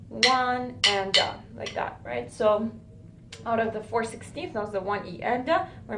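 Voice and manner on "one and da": "One and da" drawn out slowly and evenly; slow counted rhythm. Shown as a demonstration. Teacher slowly counting the rhythm "One and da" for a student. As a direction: say "One and da" slowly, one syllable per note. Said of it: "So it sounds like this".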